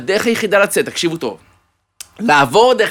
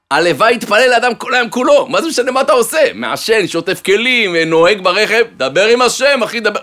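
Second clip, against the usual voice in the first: enthusiastic approval; 4 semitones higher than usual. Acted. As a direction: cheer him on warmly. (הרב מעודד בהתלהבות ובקול רם)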